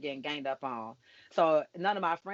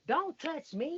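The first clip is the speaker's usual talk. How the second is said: mock snooty girl; 11 semitones higher, much slower than usual. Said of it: "she was like".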